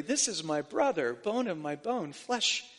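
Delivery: Jesus tenderly claiming his brother. Retold or imitated. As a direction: say it gently to a dear brother. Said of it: "he says tenderly".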